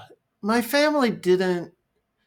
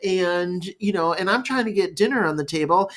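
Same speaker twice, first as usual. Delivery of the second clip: higher-pitched, mildly exasperated parent; acted anger; 3 semitones higher than usual. Busy parent blaming child for ruining morning, acted anger. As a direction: pile up complaints at the child, mock-angry. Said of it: "I can get angry and go".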